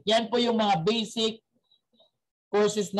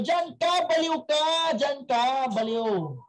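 mocking doctor; 5 semitones higher, slower than usual. Doctor mocks madman.

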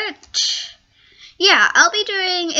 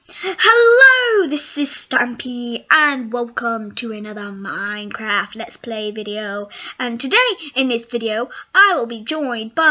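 Stampy Longnose; 3 semitones lower than usual. Retold or imitated. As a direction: imitate a gamer's sing-out greeting, settling lower. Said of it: "this is Stampy Longnose".

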